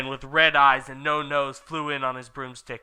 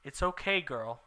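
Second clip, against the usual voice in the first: reassuring; 6 dB quieter than usual. Acted. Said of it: "said Bloody Mary".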